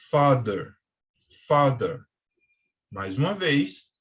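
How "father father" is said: "Father" with a D-like voiced th. Shown as a demonstration. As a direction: demo "father" twice, firm th. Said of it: "o som do T H ... parece muito com o som do D".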